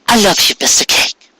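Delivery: high, hushed and loving; wife whispering love to husband; tender whisper. Acted. Tender moment, wife speaking.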